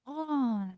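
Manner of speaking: soft yawned "Oh"; sleepy yawn sound. Shown as a demonstration. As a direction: let the "Oh" come out as a yawn. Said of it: "when you're yawning and go".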